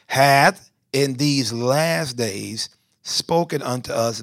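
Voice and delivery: slow, measured Bible reading with weighty key words; scripture reading. Real, not acted. Preacher reads Hebrews to the congregation, slow declamatory scripture reading. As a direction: read it out solemnly, stretching key words.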